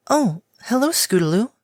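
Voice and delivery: airy timid pegasus; gentle mare voice. Acted. Gentle pegasus greets foal.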